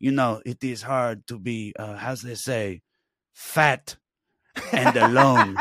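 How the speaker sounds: put-on slow, heavy French accent, lightly done. French actor flirting with his translator, slow French accent. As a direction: imitate a French actor in English. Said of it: "he goes".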